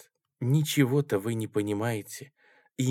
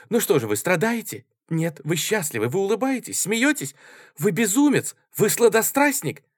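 rising, louder, jeering questions; mocking taunt; 8 semitones higher, 4 dB louder than usual. Маруся дразнит Коржикова, насмешливо и всё выше. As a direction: needle him, higher each time.

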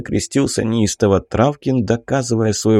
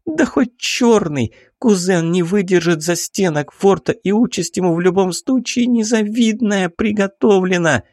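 urgent baroness; 10 semitones higher than usual. A narrator's reading. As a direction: drag each word out high, demanding action now. Baroness voiced in story.

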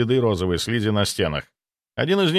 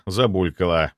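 usual speaking voice

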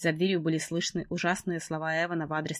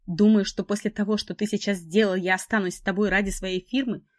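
struggling against restraints; 3 semitones higher, 6 dB louder than usual. Acted. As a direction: fight back while held down. Heroine pinned, struggling, defiant.

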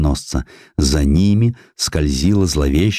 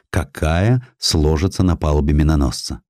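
ordinary delivery

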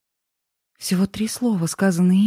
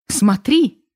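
loud, high cry of despair; anguished shout; 8 semitones higher, 5 dB louder than usual. A narrator's reading. Heroine shouting at the man who hurt her, loud and high. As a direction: throw it at him, louder and higher.

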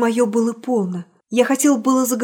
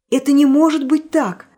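anguished protest; 4 semitones higher, 6 dB louder than usual. Acted.

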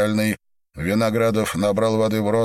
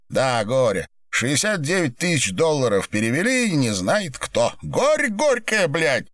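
angry sneer; 8 semitones higher than usual. A narrator's reading. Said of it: "Зло усмехнулся Виноградов".

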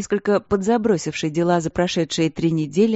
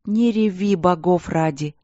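plaintive; slower than usual. Acted. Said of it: "жалобно сказала королева".

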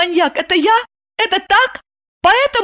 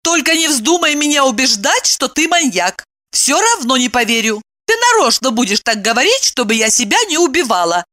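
high, insistent; ordering; 7 semitones higher than usual. A narrator's reading. Evdokia orders Kirillov to speak. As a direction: demand he tell all. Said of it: "она приказала".

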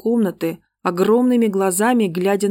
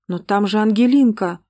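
panicked cry; 2 semitones higher, 3 dB louder than usual. Acted. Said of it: "в панике прокричала".

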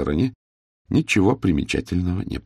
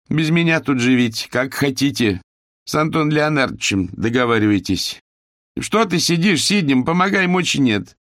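put-on higher, complaining older woman feigning weakness; ailing mistress; 8 semitones higher, 3 dB louder than usual. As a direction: whine like a sick hostess. Owner feigning illness.

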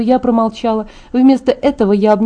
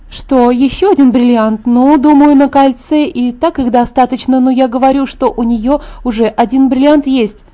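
musing Alice; 3 semitones higher than usual. Acted. Alice speculates about the bride's diamonds, musing. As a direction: think aloud in a lifted voice.

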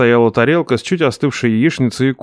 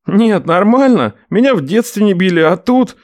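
grumbling nephew; 9 semitones higher, 3 dB louder than usual. Acted. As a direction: grumble to himself. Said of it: "бурчал Ренат".

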